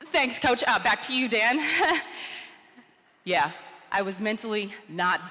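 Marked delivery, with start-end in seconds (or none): 0.1-1.6 flustered reporter. Retold or imitated. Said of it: "when I came back to reality". 1.6-2.5 nervous laugh. Retold or imitated. Awkward sign-off, acted.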